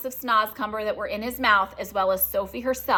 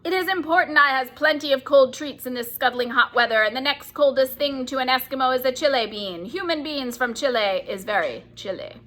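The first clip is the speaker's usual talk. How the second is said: higher, loud greedy giant bragging; boasting giant; 5 semitones higher, 3 dB louder than usual. Acted. Bloodbottler boasts to the BFG, greedy giant. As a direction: brag about his plans.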